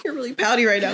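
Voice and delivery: husband's line with a laugh; laughing husband quote. Retold or imitated. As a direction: retell it, chuckling. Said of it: "He's like".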